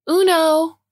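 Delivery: high, loud card-game call; triumphant shout. A narrator's reading. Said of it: "shouts Mom".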